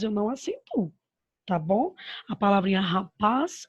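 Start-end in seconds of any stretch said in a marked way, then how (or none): 2.8-3.7 "rapaz" with a stressed final "paz"; oxytone stress. Shown as a demonstration. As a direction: land firmly on "paz" in "rapaz". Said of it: "ela vai ser uma oxítona".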